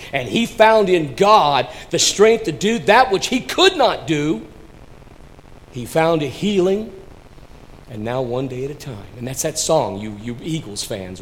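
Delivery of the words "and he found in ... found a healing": high, loud testimony to God; raised, forceful pulpit voice; emphatic preaching. Real, not acted. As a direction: proclaim it with conviction to the congregation. Preacher proclaims God's strength.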